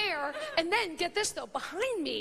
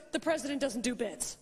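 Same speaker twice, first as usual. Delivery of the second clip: mildly stern, dead-serious guard; deadpan serious; 4 semitones lower than usual. Retold or imitated. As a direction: imitate a guard saying it totally seriously. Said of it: "totally seriously".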